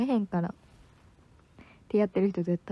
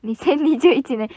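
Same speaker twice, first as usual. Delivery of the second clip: excited exclamation; 5 semitones higher, 9 dB louder than usual. Real, not acted. Sudden loud announcement.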